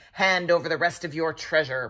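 commanding order. Acted. Pearl orders the prince to hand over treasure, commanding. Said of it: "Pearl ordered".

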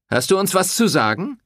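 man goading her from the table; challenging. A narrator's reading. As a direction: dare her to answer. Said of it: "fragte einer herausfordernd".

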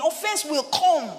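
high, forceful declarations; emphatic preaching. Real, not acted. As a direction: preach it with rising force, landing hard on each phrase.

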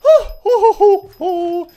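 high, loud huffs of relief; relieved hooting. Real, not acted. Player after a narrow victory, relieved hooting. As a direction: whoop out the tension after a win.

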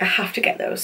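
hushed inner voice, barely voiced; whispered thought. Talking herself into buying the set, whispered. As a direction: whisper it to yourself like a secret wish. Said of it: "and I was just like".

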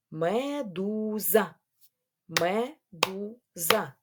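МЕДУЗА slowly as ме-ду-за; syllable by syllable. Shown as a demonstration. Teacher counting syllables with pupils, syllable by syllable. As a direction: stretch МЕДУЗА into three separate beats. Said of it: "на склади".

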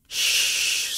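breathy whispered shh; whispered hush. Acted. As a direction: hush them in a bare whisper. Captor hushes tied-up victim. (bisikan menyuruh diam)

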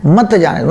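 मत जाने दो as one falling group; phrase after the comma. Shown as a demonstration. Teacher showing what follows the comma, मत जाने दो grouped. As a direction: keep मत joined to जाने दो. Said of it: "फिर कॉमा है".

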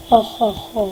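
low, soft mock-villain chuckle; quiet, spaced-out fake evil "ha ha ha"; understated villain laugh. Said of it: "Şeytani gülüşler".

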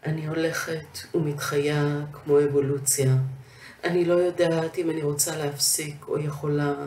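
Hebrew verse in even, measured phrases; poem recitation. Acted. Poet reading another poem in Hebrew, measured recitation. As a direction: recite it with pauses between lines.

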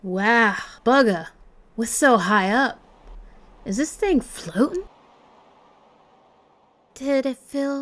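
startled then matey, in amateur Australian; Kid's attempted Australian accent. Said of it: "I wish Kid did not like talking".

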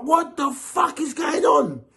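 shouted, slowed disbelief; imitating Fury's shocked reaction; mock baffled shout. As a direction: act out Fury's stunned outburst. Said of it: "Fury would be like".

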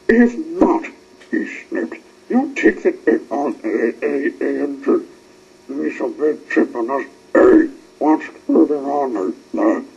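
loud blustering captain; loud, pushy captain's demand. A narrator's reading. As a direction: bark questions at the crew. Captain Star demands answers.

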